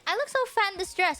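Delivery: quick sulky moan; fast whiny complaint. Retold or imitated. To friends about the dress, a fast whiny moan. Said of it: "I was like".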